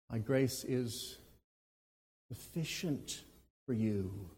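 "sufficient" said softly, weighed; stress on sufficient. Shown as a demonstration. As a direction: dwell on "sufficient". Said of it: "How about that word sufficient?".

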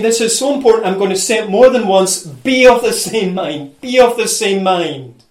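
"be of the same mind" repeated with firm stress; emphatic repetition. Retold or imitated. Preacher voicing Paul's insistence, "be of the same mind" emphatically repeated. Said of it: "I just emphasize it and emphasize it".

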